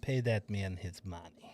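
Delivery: mock Russian movie accent. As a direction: quote the movie line slowly in a bad Russian accent. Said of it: "do everything that John Malkovich did".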